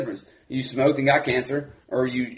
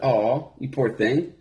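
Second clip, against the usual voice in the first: mock pity; 3 semitones lower, much slower than usual. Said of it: "you can say".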